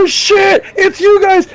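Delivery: put-on high, loud sloppy drunk delight; drunk excited greeting. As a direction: greet them like a wasted buddy thrilled to see you. Wasted friend greets the kids.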